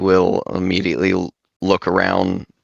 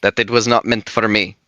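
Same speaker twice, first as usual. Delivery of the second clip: high upset character voice; 4 semitones higher than usual. Acted. Bori tells what the crown said.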